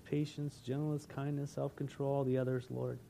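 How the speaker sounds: prayer. Acted. Closing prayer.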